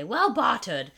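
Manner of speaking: gruff pirate voice; pirate accent. Shown as a demonstration. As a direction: growl it like a pirate. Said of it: "I add this, like, crazy accent onto it".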